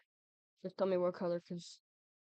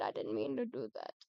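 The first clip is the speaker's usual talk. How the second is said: much lower, mock solemn voice; deep apology; 9 semitones lower, 4 dB quieter than usual. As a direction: drop into a low rumble. Repeated apology to Fred.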